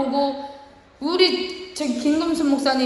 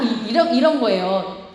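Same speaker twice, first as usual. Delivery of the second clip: usual speaking voice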